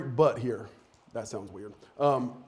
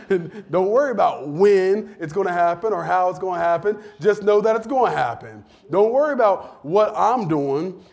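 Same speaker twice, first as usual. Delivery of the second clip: louder, rising preacher's drive; preaching emphasis; 3 semitones higher, 6 dB louder than usual. Real, not acted. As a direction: press it home to the congregation. Preacher driving the point home.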